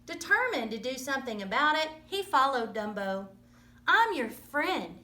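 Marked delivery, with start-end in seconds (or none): 3.9-5.0 tender promise. Acted. Mouse comforts lonely elephant.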